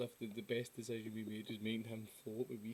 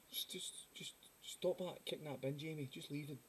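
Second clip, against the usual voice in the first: softer, coaxing mock reassurance; calming friend; 2 semitones higher, 4 dB quieter than usual. Friend calming drunk Jamie by the bin, mock soothing. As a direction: gently talk a drunk mate down, play-acted.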